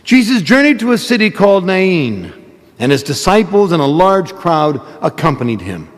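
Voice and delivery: solemn proclaimed gospel reading. Real, not acted. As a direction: proclaim it from the pulpit. Priest proclaims the gospel at Mass.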